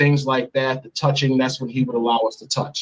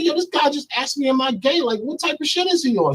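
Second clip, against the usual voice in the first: outraged complaint; 12 semitones higher than usual. Retold or imitated. Retold complaint to Cassie.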